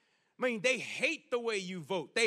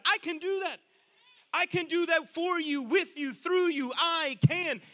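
building emphatic promise; 6 dB louder than usual. Acted. God promises strength to the believer, building to forceful. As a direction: hammer each "I can", rising as you go. Preacher voices God's rising promise.

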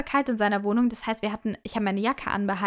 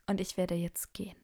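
whispered exit; 2 semitones lower, 9 dB quieter than usual. Retold or imitated. Quietly leaving the date.

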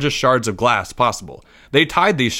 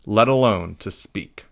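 ordinary delivery, nothing marked

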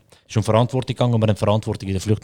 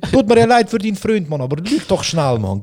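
high exasperated plea; 8 semitones higher than usual. Retold or imitated. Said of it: "gehen zu ihr, so".

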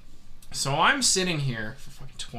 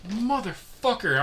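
drawn-out, higher-pitched angry curse; pissed off; 8 semitones higher, slower than usual. Retold or imitated. Storyteller reacting to vomit on his shoes, pissed. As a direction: stretch the curse out in retold exasperation. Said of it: "And I'm pissed".

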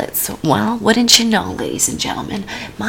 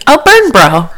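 mock bro call; 5 semitones higher, 7 dB louder than usual. Naming a contestant type.

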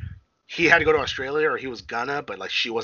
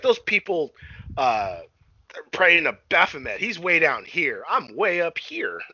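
mock mad; 5 semitones higher, slower than usual. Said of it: "And she was mad".

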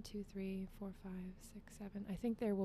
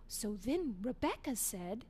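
narrator voice; 2 semitones higher than usual. Retold or imitated. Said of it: "my dad was the narrator and would say".

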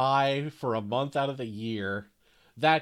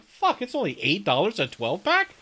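excited shout; 9 semitones higher, 7 dB louder than usual. Retold or imitated. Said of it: "I'm like".

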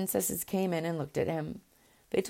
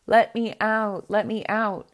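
loud, slow, pleading cry to be freed; 4 semitones higher, 6 dB louder, slower than usual. A narrator's reading. Caged little bird begging the princess to free him, loud slow plea. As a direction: beg loudly to be let out of the cage. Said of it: "he began to cry again".

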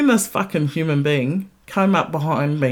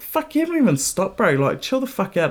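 higher-pitched exasperated telling-off; retold exasperation; 6 semitones higher than usual. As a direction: scold the impatient driver. Retelling anger at the driver.

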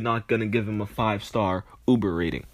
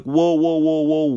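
loud, higher whoa's to stop him; alarmed cut-off; 4 semitones higher, 5 dB louder than usual. Retold or imitated. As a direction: jump in to stop him mid-word. Cutting off driver's N-word.

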